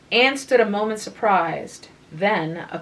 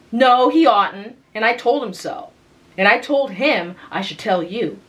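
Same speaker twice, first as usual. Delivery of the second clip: louder, higher indignant protest; indignant insistence; 3 semitones higher, 5 dB louder than usual. Acted. Young girl protests to her sister, loud and indignant. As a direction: stamp her foot in words.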